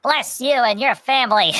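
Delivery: a hint of warm old Italian bakers; grateful bakers. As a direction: bless them like doting grandmothers. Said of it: "And they're like".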